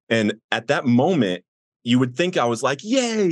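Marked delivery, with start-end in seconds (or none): 2.8-3.3 high-pitched mock cheer; an imagined excited yay, much higher. Imagining his happy reaction to God, mock excited. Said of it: "you know, excited".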